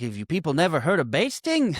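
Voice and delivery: indignant New York Jewish guy impression. Imitating his turkey complaint, New York Jewish guy voice. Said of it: "the New York Jewish guy".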